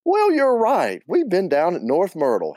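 high-pitched Southern aunt; chirpy, high and loud reply; Aunt Hallie. Acted. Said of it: "do my best Aunt Hallie and Linda".

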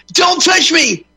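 shrill high mocking girlfriend voice. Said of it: "she would go".

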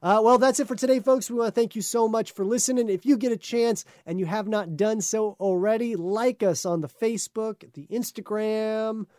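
upbeat podcast host wrapping up; host sign-off. Acted.

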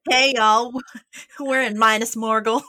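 a bad Southern greeting; southern accent. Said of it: "I'm terrible at accents".

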